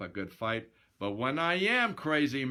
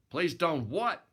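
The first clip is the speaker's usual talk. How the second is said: a louder, impatient bark of a question; irritated snap; 5 semitones higher, 4 dB louder than usual. Acted. Boxer snapping at the cringing girl, irritated. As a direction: snap it back, annoyed. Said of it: "I snapped in some irritation".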